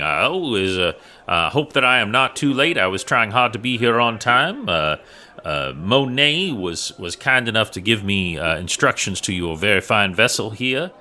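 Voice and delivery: high, eager, over-polite adventurer; eager polite character voice. Acted. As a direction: chatter up high to win him over. Player's character chats nervously, high-pitched.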